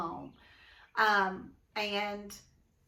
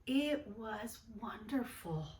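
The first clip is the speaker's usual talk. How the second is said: whispering; 6 dB quieter than usual. Acted. Character speaks softly in story.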